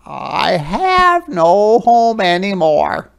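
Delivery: sad. Acted. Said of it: "replied sadly".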